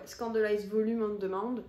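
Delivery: brand name said with a strong French accent; French accent on English. Real, not acted. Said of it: "je vous ai fait ça un accent français magnifique". (nom anglais prononcé avec un accent français)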